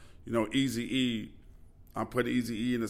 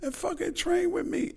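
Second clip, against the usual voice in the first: retold shout. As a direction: bark the challenge out in fun. Retold boxer challenge shouted.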